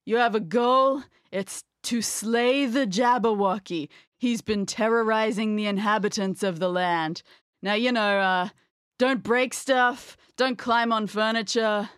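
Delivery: slow, groaning undead escape room host; zombie voice. Acted. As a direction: drag the words like a tired zombie. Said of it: "gotta do my zombie voice now".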